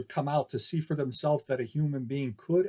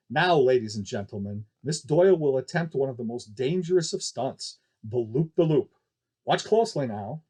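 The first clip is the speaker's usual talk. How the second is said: hint of seriousness. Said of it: "with a hint of seriousness in his voice".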